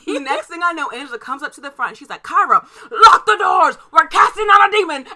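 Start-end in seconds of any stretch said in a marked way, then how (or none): 2.2-5.0 loud, high mock yell; urgent shouted order. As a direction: holler it across the shop, half laughing. Imitates boss yelling urgent orders.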